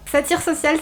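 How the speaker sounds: lisping through the s sounds; slushy s from a sore mouth. Real, not acted. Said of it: "c'est le mot le plus dur à dire".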